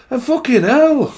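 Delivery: put-on Chesterfield accent. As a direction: exclaim slowly in a Chesterfield accent. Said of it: "That's just like Chesterfield".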